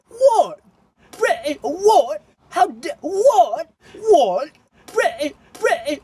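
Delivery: high, baffled repeated whats; confused Hawk. Pretend. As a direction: sputter in disbelief, pitched well up. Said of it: "he's gonna be like".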